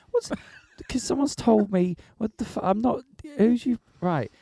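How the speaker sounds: high laughing exasperation, words breaking up; laughing disbelief. Retold or imitated. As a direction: laugh through the outrage.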